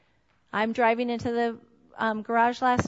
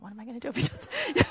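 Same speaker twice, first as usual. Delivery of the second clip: anxious worry; faster than usual. Retold or imitated. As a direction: fret over it aloud. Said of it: "I'm thinking".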